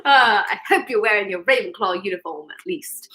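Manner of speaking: the same clumsy put-on British accent, fading off; a Hogwarts-teacher British accent, trailing off; bad British accent. Teasing a late viewer in a jokey British accent. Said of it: "that was a horrible British accent".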